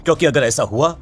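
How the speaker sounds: urgent call. Acted. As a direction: call her back before she leaves. Priest calls her back urgently. (पीछे से ज़ोर से पुकारती चेतावनी)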